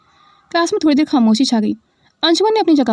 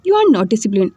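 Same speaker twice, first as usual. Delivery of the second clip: mock anger; 3 semitones lower, much slower than usual. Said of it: "नकली गुस्से से कहा".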